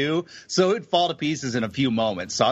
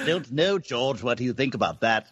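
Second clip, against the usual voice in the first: put-on accent of a famous band's member; 3 semitones lower than usual. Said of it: "Can you do those accents?".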